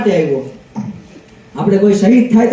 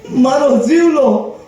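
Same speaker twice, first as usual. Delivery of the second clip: mock weeping old woman. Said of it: "તમે કેમ રોવો હો".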